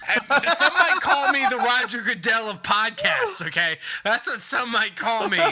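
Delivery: tipsy, loud slurring boast. Real, not acted. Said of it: "I'm drunk on Bud Light".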